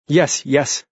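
high frantic scream. A narrator's reading. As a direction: scream yes. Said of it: "she screamed".

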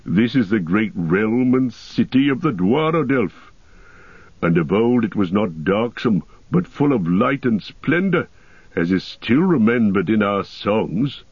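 lightly voiced proud dwarf; Gimli, proud rebuttal. Dwarf defends his ancestral halls, proud rebuttal. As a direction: correct him with a touch of dignity.

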